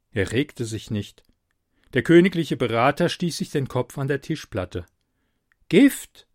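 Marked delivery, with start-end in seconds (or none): 5.7-6.3 sudden high loud cry; shocked discovery. Acted. Advisor finds the poisoned king, cries out in shock. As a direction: blurt it out in shock. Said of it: "sagte er".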